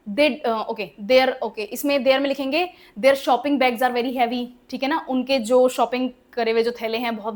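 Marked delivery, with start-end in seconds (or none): 3.0-4.5 very slow, word by word; slow example read. Shown as a demonstration. Teacher dictating an example sentence to the class, very slow. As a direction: dictate it so students can write it down. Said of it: "teacher dictating example sentence".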